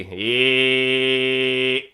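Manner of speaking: loud, slow twanged "he"; loud, slow "he" with chest-voice twang; chest twang demo. Shown as a demonstration. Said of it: "twang in your chest voice".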